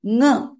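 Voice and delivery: "nga" from the throat through the nose; guttural nasal. Shown as a demonstration. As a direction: hum the ng into "nga". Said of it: "It's a guttural nasal".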